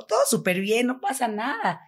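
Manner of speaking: forced smile in the voice; fake cheerfulness. Shaken girl hiding it from her friend, falsely cheerful. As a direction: pretend everything is fine, voice lifting at the end. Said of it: "como que hasta sonriendo".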